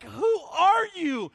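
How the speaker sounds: mildly hammed-up outrage; retold upset. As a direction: re-enact fuming at a seatmate, words stretched. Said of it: "getting more and more upset".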